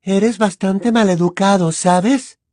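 Luna's dreamy unbothered comment; serene remark. Acted. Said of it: "comentó Luna con serenidad".

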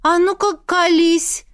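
loud, high, insistent order; suspicious demand. A narrator's reading. Sister grilling the heroine, suspicious and demanding. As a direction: demand a confession, loud and pressing. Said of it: "переполнилась подозрением и потребовала".

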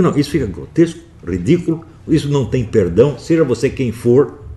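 condenação indignada. Retold or imitated. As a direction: condemn it forcefully, point by point. Retells condemning the bad parody. (repreensão indignada, alta e enfática)

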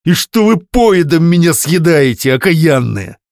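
desperate outcry. Acted. Husband's desperate outburst.

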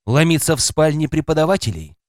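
ordinary delivery

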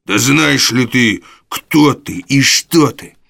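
roaring. Acted. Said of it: "взревел Сайкс".

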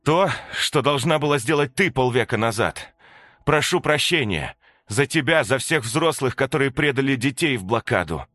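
solemn apology. Acted. Katya begs the children's pardon for the adults, loud and earnest. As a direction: ask forgiveness with full weight.

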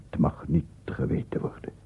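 breathy secret whisper; a frightened whisper. Acted. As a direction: hide the words from anyone listening. Confiding a forbidden secret.

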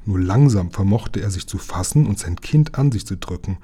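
ordinary delivery, nothing marked

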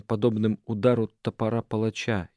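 ordinary delivery

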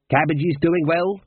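high, theatrical small talk. A narrator's reading. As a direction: play to the room with forced cheer. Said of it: "raised his mug theatrically".

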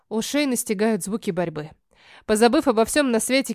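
usual speaking voice

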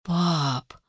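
soft, deflated "Пап"; sighing. A narrator's reading. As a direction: sigh it, avoiding his eyes. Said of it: "вздохнула я".

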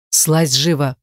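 deep commanding bark, lightly done; a hint of a booming order; booming bass. A narrator's reading. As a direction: order her down in a big bass. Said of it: "пробасил он во всю силу".

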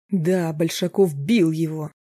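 slow angry confirmation, бил hit hard; husband snapping back in anger. Acted. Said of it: "разозлился Роб".

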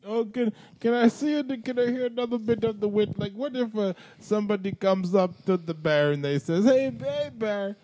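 Bill Cosby impression. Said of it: "Mister Cosby's had quite".

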